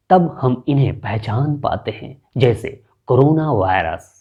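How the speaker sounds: expressive narration demo; documentary narration. Shown as a demonstration. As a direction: read it like a nature documentary. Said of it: "देखिए, सुनिए".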